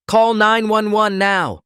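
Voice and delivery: high, slow desperate scream. A narrator's reading. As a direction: scream it in panic. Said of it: "he was screaming".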